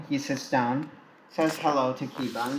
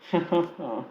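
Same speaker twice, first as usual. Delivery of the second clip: amused laugh; 4 semitones higher than usual. Acted. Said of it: "The principal laughs".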